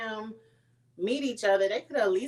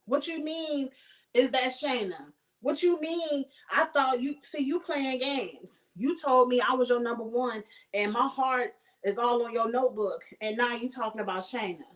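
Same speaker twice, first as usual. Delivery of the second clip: in her feelings; 3 semitones higher than usual. Retold or imitated. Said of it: "she all in her feelings like".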